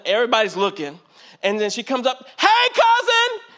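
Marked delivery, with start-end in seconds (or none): 2.4-3.4 excited lady greeting. Retold or imitated. Cousin greeting him at the student union, high and gushing. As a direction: gush it like seeing long-lost family.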